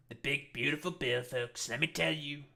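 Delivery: lightly voiced Trump rally line; a hint of the salesman president; Trump impression. Mocking the bill again, light Trump voice.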